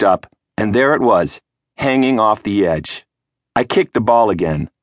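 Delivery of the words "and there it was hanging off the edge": ordinary delivery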